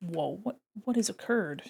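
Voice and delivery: confused exclamation. Reacting to an unexpected result while drawing: confused exclamation. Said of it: "Do you like my confusion?".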